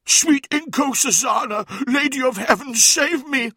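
high, loud cry of horror; horrified prayer pitched far above normal. A narrator's reading. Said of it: "Lemuel looked up in horror".

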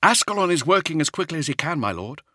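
put-on earnest young soldier reporting; space marine voice. Nemiel answers the Primarch.

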